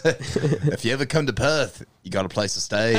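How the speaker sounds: mimicked Aussie accent; Australian accent. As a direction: imitate a friend's Australian accent, unhurried. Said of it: "ever said on Australian accent".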